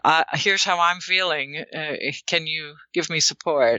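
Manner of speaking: understated, non-blaming request; I-sentence approach. Acted. Partner speaking from their own feelings, non-accusing. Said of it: "it's more".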